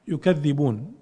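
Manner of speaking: يكذبون as yukadhdhibūn; doubled dhal. Shown as a demonstration. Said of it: "والثانية بالتشديد". (يكذبون بضم الياء وتشديد الذال)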